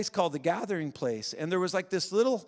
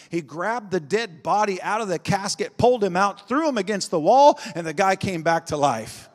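louder and louder toward the climax; building preacher intensity; 2 semitones higher, 9 dB louder than usual. Acted. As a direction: drive the miracle story home. Building miracle story.

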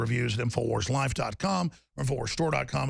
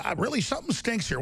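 raised shout; 6 semitones higher than usual. Real, not acted. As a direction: bark out that it stinks. Host shouting suspicion.

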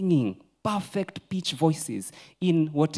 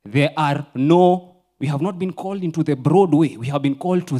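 loud insistence; 3 semitones higher, 7 dB louder than usual. Real, not acted. Preacher loudly telling the church there are no other ways, forceful. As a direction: hammer it loudly.

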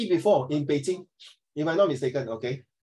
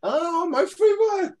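excited; 13 semitones higher, slower than usual. Real, not acted. Delighted by the oyster choice.

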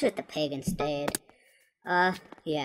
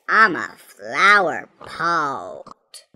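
mock crying; 4 semitones lower, 5 dB louder, much slower than usual. Resumes after breakdown.

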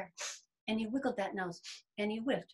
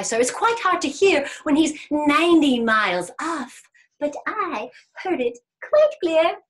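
grand, increasingly loud rabbit brag; boastful rabbit; 3 semitones higher, 9 dB louder than usual. Acted. Rabbit telling the bear what he heard, boastful. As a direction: build up the tall tale proudly.

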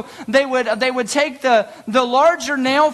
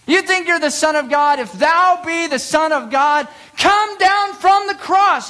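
scornful crowd jeering up at the cross; mocking taunt; 5 semitones higher than usual. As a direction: jeer it up at the man on the cross.

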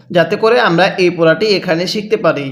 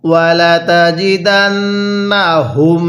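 Quran recitation. Shown as a demonstration. Teacher leads students in reciting along. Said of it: "আরেকবার পড়ুন".

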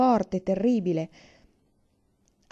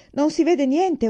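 loud, raised shout into the dark; 8 semitones higher, 7 dB louder, slower than usual. A narrator's reading. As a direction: shout to be heard over the water. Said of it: "urlò papà".

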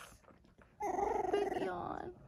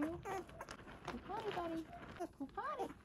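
high coaxing voice; 7 semitones higher, 9 dB quieter than usual. Real, not acted. Coaxing puppy to potty.

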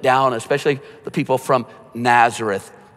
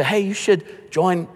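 slow, higher, casual invite to a coworker; friendly invitation; 5 semitones higher, slower than usual. Pretend. Churchgoer casually inviting a coworker over the phone, friendly. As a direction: lightly ask a friend along, slowly. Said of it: "you can say".

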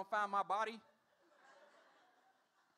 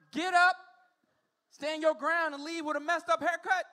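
emphatic dilemma; 4 semitones higher, 7 dB louder than usual. Real, not acted. Weighing the choice loudly.

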